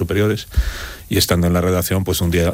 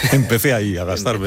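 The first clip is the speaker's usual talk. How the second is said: laughing; 4 semitones higher than usual. Real, not acted. Laughing at host's joke.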